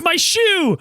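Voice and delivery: high mock wail; imitating dismayed friend. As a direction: whine it like the friend mourning his loss. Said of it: "He goes".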